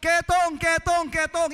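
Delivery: loud calling out from afar, repeated; leper's warning cry. Retold or imitated. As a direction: shout the warning to people far away. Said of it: "sumisigaw ka pa lang sa malayo". (malakas na sigaw ng babala mula sa malayo)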